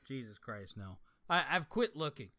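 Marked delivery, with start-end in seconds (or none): 1.3-2.3 loud, laughing through the words. Real, not acted. Laughs at his own frustration.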